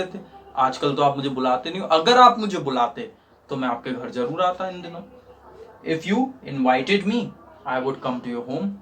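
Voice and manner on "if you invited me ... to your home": very slow, each word spelled out; teacher dictating slowly to students; slow dictation. Shown as a demonstration. Students ko dhire-dhire likhwate hue. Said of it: "teacher dictates English slowly".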